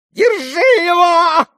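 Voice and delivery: very high, slow, loud shriek. A narrator's reading. Father shrieking at his son to be seized, very high. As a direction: shriek it out, drawn out. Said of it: "завизжал Фёдор Павлович".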